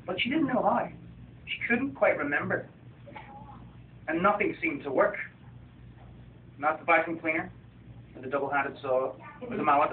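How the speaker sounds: gentle picture-book reading voice; story narration. A narrator's reading. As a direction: read it like a bedtime story to children. Author reads his picture book.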